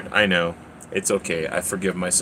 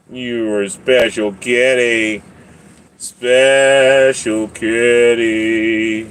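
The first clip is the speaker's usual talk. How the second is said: tender; 3 dB louder, much slower than usual. Real, not acted.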